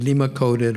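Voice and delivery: LIMA-COATED with long ee, LEE-muh; variant pronunciation. Shown as a demonstration. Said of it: "they can be pronounced".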